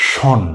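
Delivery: ending শন spoken plainly as shon; tion said shon. Shown as a demonstration. Teacher models the ending শন. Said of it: "প্রথম অংশটি হচ্ছে".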